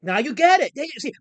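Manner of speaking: high, loud triumphant shout. Real, not acted. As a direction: cheer that he finally understands. Triumphant reply.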